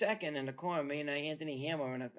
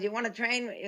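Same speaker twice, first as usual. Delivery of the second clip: higher, squeaky teasing question; squeaky Arturo voice; 8 semitones higher, 3 dB louder than usual. Retold or imitated. Arturo asking Mickey to train him, squeaky high voice. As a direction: mimic him, squeaky and incredulous. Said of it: "He got that squeaky Itali- uh, Italian, uh, French voice".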